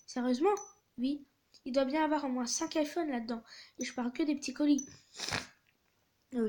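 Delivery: animated reading of a text exchange; story read-aloud. A narrator's reading. Delivery driver texting customer Francesca, animated story reading. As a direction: read out both sides with lively acting.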